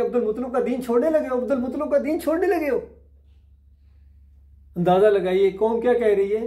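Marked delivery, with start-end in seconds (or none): 0.0-1.4 quick, reproachful taunt; taunting clan. Retold or imitated. The gathered clan reproaching the dying uncle, quick and accusing. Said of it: "कहना शुरू हो गए कि". 1.4-2.8 quick taunt pushed higher and harder. Retold or imitated. The clan pressing the uncle again, fast and sharper. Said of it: "कहना शुरू हो गए कि".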